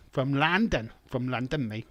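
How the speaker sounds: exaggerated London vowels on London; put-on London pronunciation; mock London accent. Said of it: "London accent".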